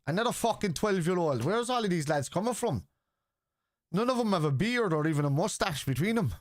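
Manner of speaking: high, swooping incredulous complaint; exasperated, pitch leaping up and down; mock exasperation. Real, not acted. Streamer ribbing young trolls in his chat, mock exasperation.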